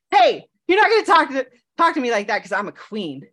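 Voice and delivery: mock-offended queen laying down the law; sassy queen talk. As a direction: sass him like a queen who won't be disrespected. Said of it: "that's how I talk to him sometimes".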